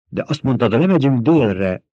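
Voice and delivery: indignant protest. Acted. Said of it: "méltatlankodott Csani".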